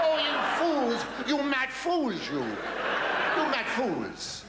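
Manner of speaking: high, slow ranting madman; mad villain. Acted. Mocking the audience as a raving madman. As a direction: shriek at the fools like a mad scientist. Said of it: "Mocking Francis".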